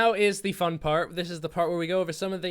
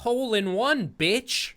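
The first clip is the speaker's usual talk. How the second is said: mock Sandler line; 6 semitones higher than usual. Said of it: "Adam, the line was".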